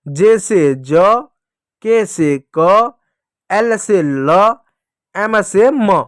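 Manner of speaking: letter name, से, then a long drawn-out sound like ब, क, ड; very slow chanted pairs, stretching ब, क, ड as "buh, kuh, duh"; phonics repeat-after-me drill. Shown as a demonstration. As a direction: lead pupils slowly, holding each sound like ब or म. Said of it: "मेरे साथ बोलिएगा".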